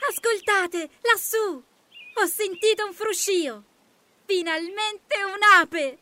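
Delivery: very high ladybird exclaiming; high-pitched hopeful excitement; excited cry. A narrator's reading. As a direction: pipe it out eagerly in a tiny high voice. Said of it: "gridò la coccinella".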